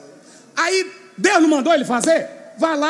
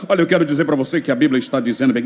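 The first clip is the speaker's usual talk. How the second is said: low, fast mock of a smug theologian; 12 semitones lower, much faster than usual. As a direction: rattle it off like a know-it-all scholar. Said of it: "Quando você vê teólogos toda hora". (imitando teólogo com desdém)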